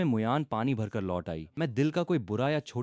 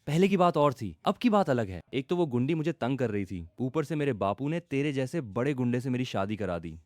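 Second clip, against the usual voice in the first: tearful; 3 semitones higher than usual. Acted. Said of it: "रुआंसी आवाज में कहा".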